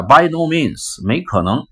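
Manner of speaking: high, slow, defiant "no means"; defiant refusal. Acted. Employee refusing the boss, defiant and slow. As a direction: refuse flatly and slowly. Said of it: "你回答".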